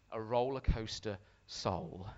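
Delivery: slow, weighty title with "Soul" drawn out; deliberate repeat. Real, not acted. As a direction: let "Roller Coaster" and "Soul" land separately.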